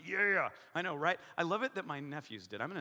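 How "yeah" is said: louder, drawn-out "yeah"; mock enthusiastic yeah. Imitating an eager audience member, hammed-up enthusiasm. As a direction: belt out a hammy yeah. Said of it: "You're just like".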